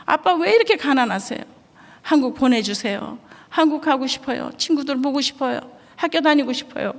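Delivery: put-on high, tearful child's plea; sobbing boy. Son crying to his father at the table, tearful plea. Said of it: "펑펑 우는 거예요".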